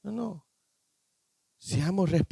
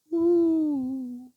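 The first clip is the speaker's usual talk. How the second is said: shout of joy; 9 semitones higher than usual. Shown as a demonstration. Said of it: "Este grita de júbilo".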